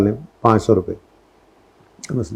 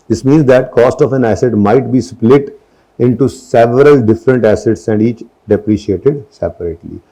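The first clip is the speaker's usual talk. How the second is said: slow, deliberate dictation read; measured classroom reading; slow textbook reading; much slower than usual. Acted. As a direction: read it out word by word for notes. Reads textbook definition aloud.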